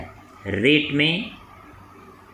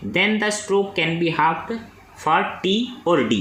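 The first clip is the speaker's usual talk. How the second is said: reads the exam question very slowly, word by word; slow dictation reading; 2 semitones higher, much slower than usual. Acted. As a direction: dictate it so students can write. (प्रश्न धीरे-धीरे बोलकर लिखवाना)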